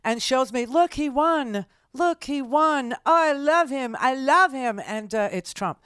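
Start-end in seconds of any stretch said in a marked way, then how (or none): 0.7-4.8 put-on excited Latina accent, higher and louder. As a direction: gush in a Latina accent over the phone. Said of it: "very strong sort of a Latina accent".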